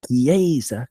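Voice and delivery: "Chiesa" as kee-AY-za, middle syllable drawn out; Italian stress. Shown as a demonstration. Podcaster showing Italian stress, stressed middle syllable. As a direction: lean on the AY in "Chiesa". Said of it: "'cause Italian has stress".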